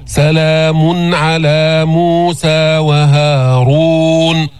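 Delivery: سلام على موسى وهارون read very slowly, with the r of وهارون round and heavy on a full damma; the heavy, rounded r of وهارون in slow recitation. Shown as a demonstration. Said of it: "وليس وهارون".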